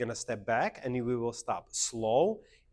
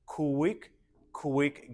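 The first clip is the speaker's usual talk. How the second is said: two separate beats, higher pitched QUICK QUICK; dance step count; 3 semitones higher, 4 dB louder than usual. Shown as a demonstration. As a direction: call out quick, quick on the beat. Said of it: "So we go".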